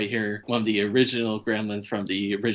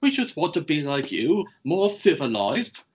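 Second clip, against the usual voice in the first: Brain Gremlin; 5 semitones higher than usual. Retold or imitated. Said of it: "he's like".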